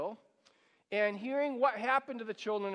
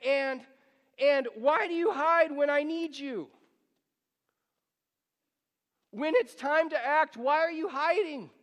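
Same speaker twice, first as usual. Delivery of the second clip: higher, louder, aching lament; anguished complaint; 6 semitones higher, 5 dB louder than usual. Acted. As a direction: cry out like a child left alone. Voicing the psalmist's complaint to God.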